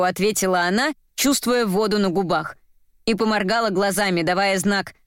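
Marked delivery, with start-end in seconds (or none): none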